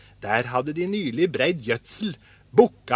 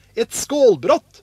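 high, loud, drawn-out answer; proud announcement; 8 semitones higher, 6 dB louder, slower than usual. A narrator's reading. Askeladden shows his brothers a broken dish, proud. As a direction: present the find slowly, like treasure.

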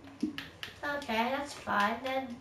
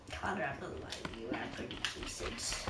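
kawaii voice; 12 semitones lower, 12 dB quieter than usual. Acted. Voicing Sarah's kawaii voice.

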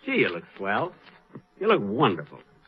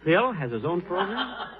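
surprised question; 4 semitones higher, 5 dB quieter, slower than usual. Acted. Learns Phil's news.

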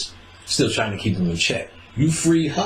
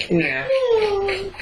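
much higher, wailing fake sob; mock crying yeah. Faking tears at his girlfriend's fussing, high mock wail. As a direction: whimper it like a mock cry.

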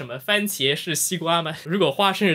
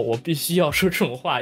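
ordinary talk

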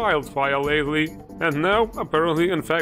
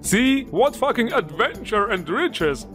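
incredulous scoff; 6 semitones higher than usual. Real, not acted. Scoffs at game line.

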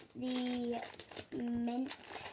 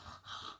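gasp for air; 15 dB quieter than usual. Real, not acted. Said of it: "it was hard to breathe".

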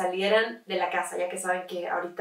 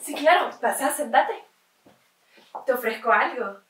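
higher-pitched, lightly acted welcome; welcoming host; 4 semitones higher than usual. Host inviting a visitor to sit, lightly acted welcome. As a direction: usher a guest in politely.

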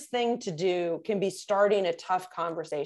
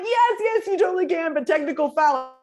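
excited yes; 6 semitones higher, 5 dB louder than usual. Retold or imitated. Her own excited reply retold.

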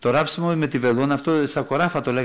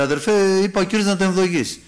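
acted protest, raised in pitch; insistent self-defence; 5 semitones higher, 3 dB louder than usual. Preacher voicing the brother explaining himself, insistent. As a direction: insist on it, higher and a little louder.

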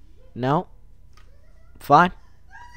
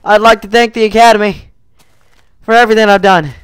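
mock award speech; 2 semitones higher, 3 dB louder, much faster than usual. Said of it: "I just like to say that".

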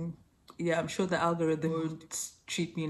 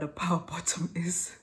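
whispering. Real, not acted. Embarrassed term explained to dad.

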